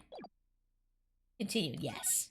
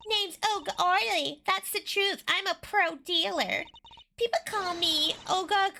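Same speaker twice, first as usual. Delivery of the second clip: put-on Russian accent; 4 semitones higher than usual. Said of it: "I'm not really Russian".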